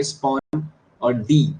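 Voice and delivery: स्पॉन and डी drawn out, each stressed equally; slow demo with stress on both स्पॉन and डी; stress on both syllables. Shown as a demonstration. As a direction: give स्पॉन and डी equal, separate weight. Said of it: "दोनों की sounds में भी आप देखोगे stress आ रहा है".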